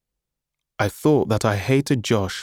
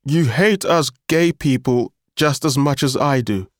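bitter accusation through a bloody mouth; a hint of talking through blood; mouth full of blood; 4 semitones higher, 3 dB louder than usual. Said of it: "speaking through a mouthful of blood".

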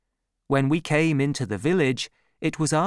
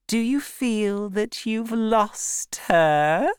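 much higher, slow cold taunt; cruel taunting; 9 semitones higher, slower than usual. A narrator's reading. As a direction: twist the knife, cold and cruel. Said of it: "She laughed so cruelly".

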